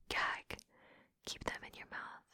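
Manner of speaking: very soft, breath-only order; commanding whisper. Acted. Dominant ordering partner, whispered.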